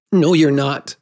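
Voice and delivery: put-on boy's insistent protest; flat denial. A narrator's reading. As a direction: deny it forcefully, refusing to believe. Boy refuses to believe her.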